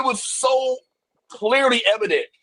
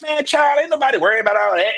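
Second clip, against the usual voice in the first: quick, lightly Southern Georgia mom; Georgia home accent; 3 semitones higher, 5 dB louder, faster than usual. Retold or imitated. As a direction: rattle it off fast like mom back in Albany, Georgia. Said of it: "you revert back to who you were".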